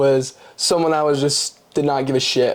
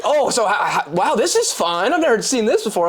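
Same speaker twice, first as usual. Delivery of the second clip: higher-pitched, lightly mocking impression of a newcomer; gushing first-meeting chatter, lightly imitated; imitating excitable friend; 5 semitones higher than usual. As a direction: play a chatty newcomer, voice lifted.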